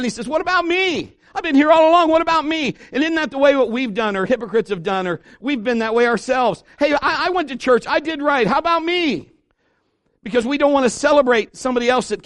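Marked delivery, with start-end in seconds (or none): 0.3-2.7 high, loud whiny protest; mad older son. Acted. Older son complains to father, high indignant whine. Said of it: "he gets mad". 6.8-9.3 high, loud indignant churchgoer; mock self-righteous whine. Hypocrite complains about grace to others, high self-righteous whine.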